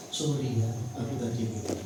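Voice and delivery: low, soft apology; apologetic. Retold or imitated. Husband apologising to wife after a quarrel, low and soft.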